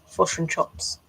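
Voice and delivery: playful imitation of Kiwi vowels; mock New Zealand accent. Sculptor poking fun at New Zealanders, mock Kiwi accent. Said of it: "poking fun at New Zealanders".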